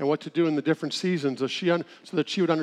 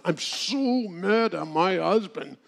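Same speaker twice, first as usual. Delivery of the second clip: slow, higher, put-on whine; whiny widow voice; 3 semitones higher, much slower than usual. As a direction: drag it out like a fed-up widow. Widow complaining about dead husband.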